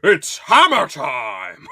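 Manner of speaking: very high, loud crying-out yell; mock excited shout. Fan quoting Douglas rallying the boys, shrieking. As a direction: shriek it like a hype call. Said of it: "when he's like".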